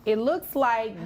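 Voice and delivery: hushed suspense whisper. Real, not acted. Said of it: "We need a drum roll".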